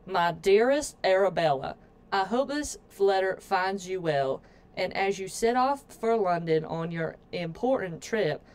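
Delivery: a rough, loose attempt at a Southern accent. Reading her sister's letter aloud in a mock Southern accent. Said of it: "Southern accent, if that's what you would call whatever the fuck I just did".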